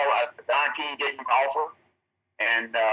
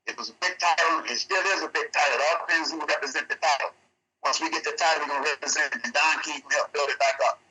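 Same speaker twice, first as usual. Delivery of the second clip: breaking up over a bad line; choppy connection. Real, not acted. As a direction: audio dropping in and out. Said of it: "you're still sounding choppy".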